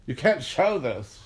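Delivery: mock the organizers panicking; hammed-up alarmed order; panicked monitors. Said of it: "They were like".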